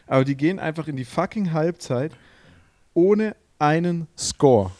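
incredulous, drawing out the punchline; exasperated emphasis. Real, not acted. Exasperated repeat about scoreless first half.

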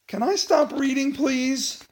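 pleading. Acted. Reader begs to stop.

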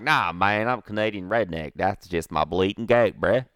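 slow, drawn-out Canadian redneck drawl; mock Canadian redneck goat owner. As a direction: ham up a Canadian redneck accent. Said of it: "in his Canadian redneck voice".

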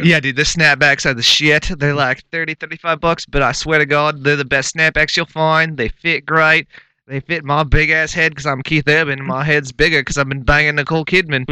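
lightly put-on Australian accent, loose and boastful; a hint of Australian twang, playing a country singer; mock country-singer Australian. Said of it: "that was my country singer".

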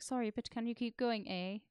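hammed-up Canadian accent with eh; mock polite Canadian. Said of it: "he's Canadian".

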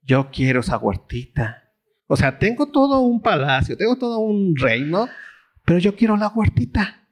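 whiny spoiled king wanting the garden; petulant king demanding a little garden; Ahab's whine. Retold or imitated. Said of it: "¿Y qué ve la huertita y qué dice?".

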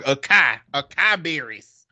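"Acai" read as uh-KAI, as spelled; naive mispronunciation. Retold or imitated. Southerner guessing at an unknown word, naive mispronunciation. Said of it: "ain't finna think that word is acai".

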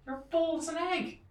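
loud acted denial, climbing high; indignant wife. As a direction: contradict loudly in mock outrage. Wife rejects husband in story.

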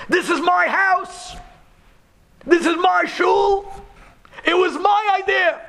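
high, loud cry of self-sacrifice; screaming confession. Retold or imitated. Rabbi Yehuda shields the Rambam from the Pasha, high desperate scream. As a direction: throw yourself forward and shout it out. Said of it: "jumps up and screams".

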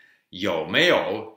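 slow, careful 有没有 with clear Chinese tones; Chinese tone demo. Shown as a demonstration. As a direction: sound out 有没有 tone by tone.

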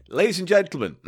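show announcer. Pretend. Host opening a comedy sketch, announcer call. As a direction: announce the act to a room.

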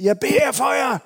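high, loud friendly call; calling out to the neighbors inside; shouted through a window. Retold or imitated. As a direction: shout it cheerfully through the glass. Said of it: "og råbte ind".

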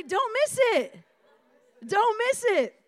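high, loud and slow, pressing each word; emphatic call. Shown as a demonstration. Pastor has the room repeat a loud warning. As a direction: make them feel the warning. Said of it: "Now say".

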